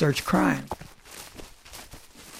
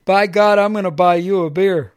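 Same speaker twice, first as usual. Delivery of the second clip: much louder imitated hearty declaration; loud drunk offer; 2 semitones higher, 6 dB louder than usual. Drunk man offering the walker a beer, booming. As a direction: boom it out like a happy drunk.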